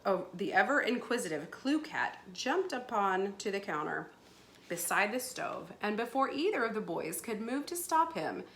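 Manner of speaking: animated storybook reading; story narration. A narrator's reading. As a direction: read the story aloud with lively emphasis. Reads story aloud to pupils.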